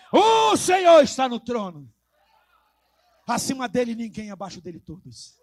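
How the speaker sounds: loud burst on a stretched opening word; loud proclamation. Acted. Preacher declaring the Lord enthroned to the church, loud proclamation. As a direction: proclaim it at full preaching force.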